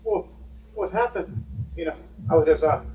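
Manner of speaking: high, panicky stammering babble; a rattled monk tripping over his words; flustered Sailor Monk. Acted. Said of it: "Sailor Monk going".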